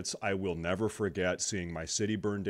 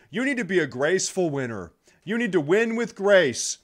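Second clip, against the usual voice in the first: mocking higher voice, louder; mocking opponents; 9 semitones higher, 5 dB louder than usual. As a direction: sneer at their advice in a mimicking voice. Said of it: "they have the audacity to say".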